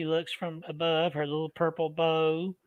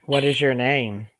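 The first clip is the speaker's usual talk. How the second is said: calling to spirit. Acted. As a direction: ask each question clearly for the recorder. Questions spirit on recorder.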